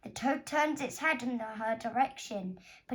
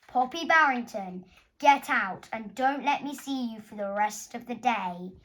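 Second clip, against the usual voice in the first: loud, commanding teacher order; stern teacher; 6 dB louder than usual. Acted. Teacher ordering Poppy out of class, loud and stern. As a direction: bark it at her like an angry supply teacher. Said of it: "he pointed and said".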